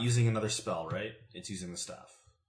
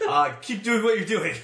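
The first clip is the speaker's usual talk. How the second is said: laughing yell across the room; calling from far away; 8 semitones higher, 5 dB louder than usual. Acted. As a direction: shout it over with a laugh. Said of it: "I'm gonna yell over to".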